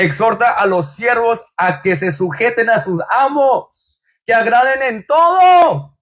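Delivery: slow scripture read building to a shout; preaching. Acted. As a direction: preach the verse, build to the end. Reads scripture with force. (predicando el versículo con fuerza)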